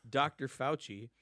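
Doctor said with weight, a beat on it; stress on Doctor. Shown as a demonstration. Insisting on the title Doctor for the governor's critic. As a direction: lean on the word Doctor before Fauci. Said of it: "I wanna emphasize the word doctor".

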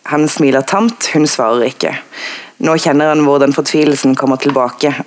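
understated, even book reading; reading aloud. A narrator's reading. Panel guest citing a passage that moved her, read aloud.

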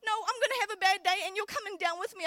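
stubborn refusal. Pretend. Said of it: "stuck in my stubbornness".

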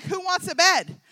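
high, loud giveaway-host call; hammed-up talk-show host shout; Oprah. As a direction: rouse the studio audience with a big offer. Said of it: "We're all Oprah over there".

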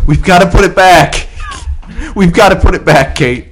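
hammed-up breathy plea as Jack; out of breath Jack. Jack pleads with Kate in a mock out of breath voice. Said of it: "your best out of breath Jack".

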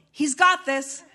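reading it out through a laugh; a delighted laugh on the headline. Retold or imitated. Magazine headline read with laugh.

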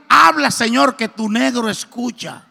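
eager blurted prayer. Retold or imitated. Man kneeling in a hurry calling to God, loud and eager. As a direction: blurt it out in a rush, then settle. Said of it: "total que yo dije".

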